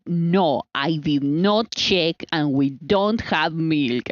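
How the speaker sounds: slow, unbothered certainty; calmly sure of yourself; full confidence. Retold or imitated. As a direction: say it slowly, with total confidence. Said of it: "she says it, like, with full confidence".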